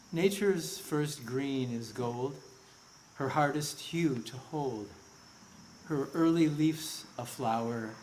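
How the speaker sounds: measured memorial poem reading. Acted. Speaker reads a Frost poem for a lost colleague, measured recitation. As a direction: recite the verse slowly, pausing after each line.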